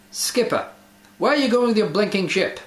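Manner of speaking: a mock British seaman shouting his question; bad British accent. Skipper demanding where the blinking ship is going, bad British accent. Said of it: "bad accents aside".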